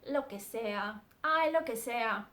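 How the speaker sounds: bored "ay, lo que sea"; dismissive. Shown as a demonstration. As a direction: brush them off, uninterested. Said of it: "not interested in what someone else is saying".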